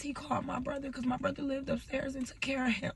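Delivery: hushed, holding back tears; grieving whisper; tearful whisper. Real, not acted. Telling painful memory.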